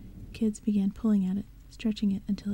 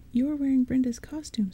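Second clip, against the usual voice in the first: mild yell; 4 semitones higher, 3 dB louder than usual. Acted. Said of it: "someone yelled".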